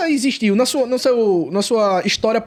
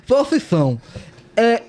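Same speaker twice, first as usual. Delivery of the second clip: garbled words with tongue out. Real, not acted. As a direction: speak with the tongue hanging out. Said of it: "Ficar um minuto falando com a língua pra fora".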